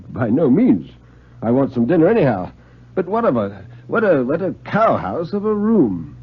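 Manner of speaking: a lightly voiced chuckling writer; amused Stone. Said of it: "Stone answers Brent".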